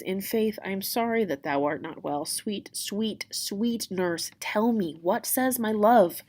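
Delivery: lightly acted sweet-talking Juliet; mild, pleading coaxing. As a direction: wheedle the nurse for news. Juliet coaxes the nurse.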